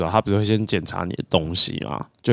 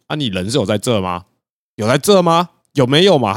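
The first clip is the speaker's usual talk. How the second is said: fluent Taiwanese retort. Retold or imitated. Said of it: "用一个很流利的台语跟我讲说".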